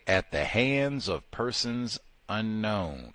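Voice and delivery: slow, deliberate official wording; solemn official phrase. Retold or imitated. Quoting the verdict slowly to his audience. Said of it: "They say".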